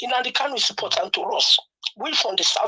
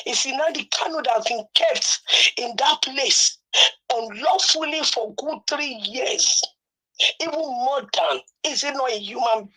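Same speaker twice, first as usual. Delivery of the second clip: tearful plea; 2 semitones higher than usual. Real, not acted. Caller pleading for Nnamdi Kanu.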